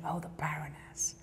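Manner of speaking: whispered in awe; hushed whisper. Retold or imitated. Doorman realising who she is, hushed whisper. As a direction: breathe the title like a secret. Doorman recognising the name Nika.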